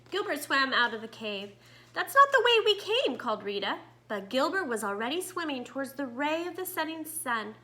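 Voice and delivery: put-on lively read-aloud to young children; story narration. A narrator's reading. Teacher reading a story to her students, lively read-aloud. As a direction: tell it like a picture book to the class.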